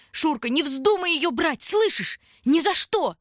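very high, loud shriek; fierce cry. A narrator's reading. Tanya shrieking at Shurka not to take the coin. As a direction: forbid it with all her force. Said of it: "Было в её голосе что-то".

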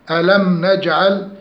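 ألم نجعل with a clean, unmerged m; clear meem. Shown as a demonstration. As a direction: close distinctly on the m of ألم. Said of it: "إظهار الميم".

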